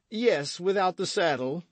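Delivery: high, blustering musketeer's reply; boisterous confirmation. A narrator's reading. Porthos confirming the sale to Aramis, blustering.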